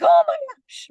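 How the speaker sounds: high, loud shriek of "Oh my gosh"; mock spider panic. Imitating her sister's squeal at a spider photo, high and loud. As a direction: squeal it like you've just seen a spider. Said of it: "she's like".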